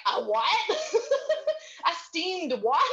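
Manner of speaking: high, loud quote broken by laughter; laughing disbelief. Retold or imitated. Retelling Seth mishearing Steam Deck, laughing and loud. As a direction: laugh through a baffled question. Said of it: "he's like".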